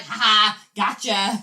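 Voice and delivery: loud mock gloating; playful taunt with a punched laugh; taunting roach. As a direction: play a roach teasing its victim. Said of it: "and be like".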